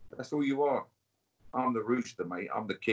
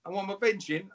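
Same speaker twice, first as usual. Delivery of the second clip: fast, loud and much higher; heated burst; 9 semitones higher, 8 dB louder, faster than usual. Real, not acted. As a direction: blurt it out in a rush. Snaps back at benching question.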